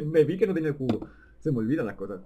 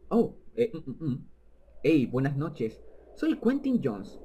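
voicing Mr Jones; slower than usual. Mr Jones on phone.

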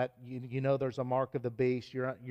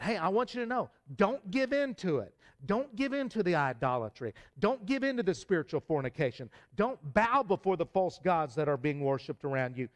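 fervent exhortation; 5 semitones higher than usual. Real, not acted. Preacher warning congregation against idolatry, fervent raised exhortation. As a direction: urge them not to give in.

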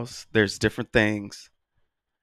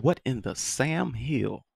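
put-on old-school scolding; 3 semitones higher, 5 dB quieter, slower than usual. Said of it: "that's old school".

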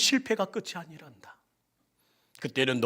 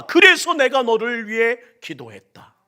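louder, higher declaration; proclaiming; 5 semitones higher, 11 dB louder than usual. Acted. Preacher voicing Jesus to congregation, loud. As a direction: proclaim it to the whole church.

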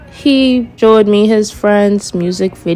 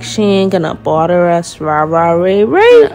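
mocking imitation. Girl retelling a date's excuses about his mother, mocking. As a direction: drag his excuses out into dismissive babble.

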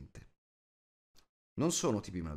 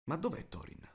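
higher-pitched, suddenly wondering; puzzled question; 9 semitones higher than usual. A narrator's reading. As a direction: ask as if just waking to find someone missing. Startled dwarf wakes, asks after Thorin.

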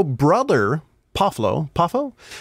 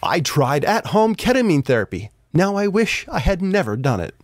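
news anchor voice. Acted. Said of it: "my best news anchor voice".

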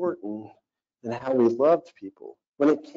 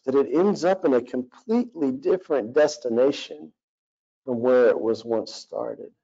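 earnest spoken prayer, lightly voiced. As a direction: address God sincerely. Leads a prayer.

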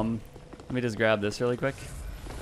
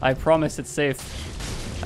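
loud then slow, luring gloat; villain taunt; 2 semitones higher, 3 dB louder than usual. Acted. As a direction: coax the victim into the fire. Taunting opponent with fire.

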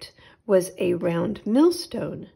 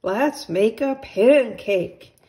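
put-on eager boy; 3 semitones higher, 6 dB louder, slower than usual. Jack eager for pancake.

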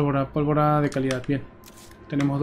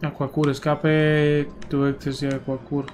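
slow deliberate reading; 5 dB quieter, slower than usual. Real, not acted. Slowly reading code aloud.

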